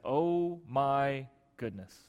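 slow, drawn-out "Oh my goodness" in awe; slow awed gasp. Retold or imitated. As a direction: let it out slowly, stunned. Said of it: "Basically saying".

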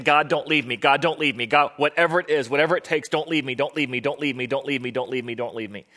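mildly acted repeated plea; crying out. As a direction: plead over and over, fading at the end. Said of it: "he's crying out".

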